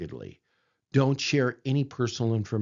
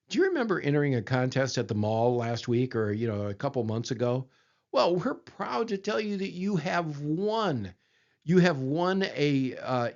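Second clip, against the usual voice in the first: imitating a scam caller; 3 semitones higher than usual. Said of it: "here's what they generally say".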